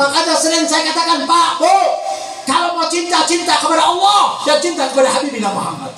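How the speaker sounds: preaching exhortation. Acted. Exhorts the congregation.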